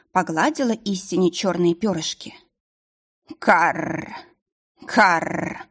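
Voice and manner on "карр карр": two rough bird croaks; raven caw. A narrator's reading. Raven answering the heroine with caws.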